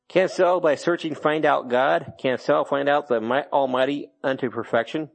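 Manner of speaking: slow, measured King James reading; scripture reading. Shown as a demonstration. Preacher reading the verse to the congregation, slow and solemn. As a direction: read the old verse out deliberately.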